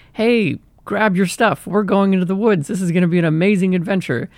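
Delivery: rally a friend for an adventure; a touch of upbeat, inviting excitement; eager hiker. Acted.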